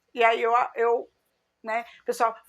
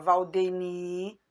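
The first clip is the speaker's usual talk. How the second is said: scolding parent; 2 semitones lower, much slower than usual. Retold or imitated. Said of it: "iam brigar comigo".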